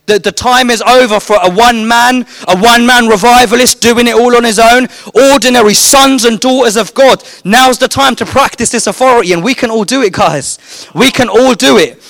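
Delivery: rally the crowd, gaining force; rising preacher. Acted. Preaching builds to full force.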